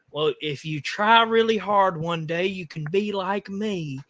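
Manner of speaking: patronizing politician. Retold or imitated. Politician telling poor Southerners they can be like him, patronizing. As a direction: lightly mimic a politician talking down. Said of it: "that's what all these politicians".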